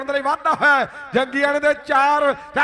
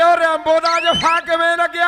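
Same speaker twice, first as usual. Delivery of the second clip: excited shout; 4 semitones higher, 3 dB louder than usual. Retold or imitated. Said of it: "ਉਹ ਜੇਠੂ ਕਹਿੰਦੇ".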